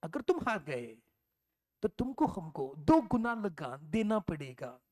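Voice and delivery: put-on slow, lightly accented Hindi of a British officer. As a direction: drawl the threat like the British captain. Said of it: "क्या बोलता है वो?". (अंग्रेज़ी लहजे में धीमा, हल्का नकली अंदाज़)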